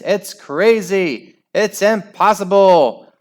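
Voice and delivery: high, loud play-by-play building to a roar; excited commentator. Acted. The speaker imagining live football commentary, frantic play-by-play. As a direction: call the winning goal like a frantic sports announcer.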